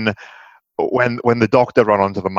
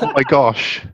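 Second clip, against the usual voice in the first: airy mock "Oh my gosh" with a laugh; hands-in-the-air "Oh my gosh", lightly laughing; playfully overdone "Oh my gosh"; mock flustered gush; 3 semitones higher, slower than usual. Shown as a demonstration. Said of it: "It's like".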